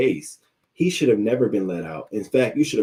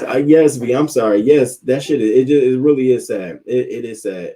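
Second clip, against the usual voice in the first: emphatic; 5 semitones higher, 8 dB louder than usual. Real, not acted. Emphatic agreement with V.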